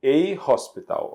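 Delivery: "a hospital" with an audible H after the article; breathed English H opening "hospital"; pronounced H in "hospital". Shown as a demonstration. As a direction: sound the H in "hospital" right after "a". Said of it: "esse H é pronunciado".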